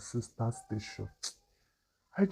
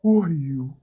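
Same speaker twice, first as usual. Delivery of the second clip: panicked, stumbling questions; frightened; 4 semitones higher, 4 dB louder than usual. Acted. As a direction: blurt it out in fear. Captive confronting his captors.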